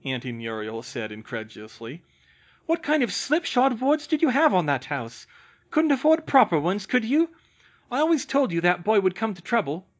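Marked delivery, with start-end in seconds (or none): 2.7-9.9 put-on high, loud scornful old aunt voice; contemptuous great-aunt, scolding. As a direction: sneer at the family like a sour old aunt. Auntie Muriel scolding the family.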